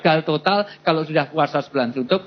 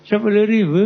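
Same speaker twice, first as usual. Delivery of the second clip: haggling vendor; 7 semitones higher, 5 dB louder than usual. Acted. Seller answering a buyer's haggling, high and loud vendor voice. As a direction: call out the price in a raised singsong.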